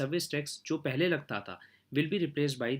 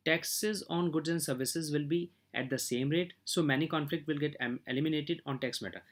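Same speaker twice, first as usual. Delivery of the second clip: slow formal reading; much slower than usual. Acted. Reads English points slowly.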